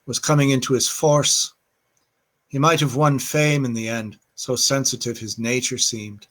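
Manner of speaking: a lightly put-on Irish accent for a poem reading; reading Yeats aloud in a mild, hammed-up Irish accent; bad Irish accent. Reading poetry to listeners in quarantine, in a light put-on Irish accent. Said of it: "I started reading that with a bad Irish accent".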